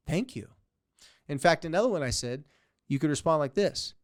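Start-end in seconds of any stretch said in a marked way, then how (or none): 0.1-0.5 mock gracious. Shown as a demonstration. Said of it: "You allow the insult to be accepted".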